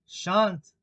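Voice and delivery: curt refusal. A narrator's reading. Cook refuses the king.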